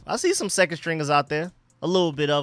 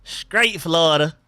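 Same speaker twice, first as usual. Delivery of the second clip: put-on slow, drawled Florida accent; imitated Florida accent, drawn out; slower than usual. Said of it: "You can tell by the accent".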